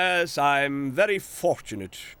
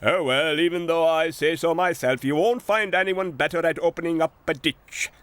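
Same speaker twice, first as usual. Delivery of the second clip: boasting; 3 semitones higher, faster than usual. Acted. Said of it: "boasted J C".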